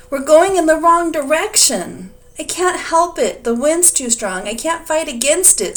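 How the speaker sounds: high, loud scream through the storm. A narrator's reading. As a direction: yell in panic over the thunder. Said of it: "screamed the dragon".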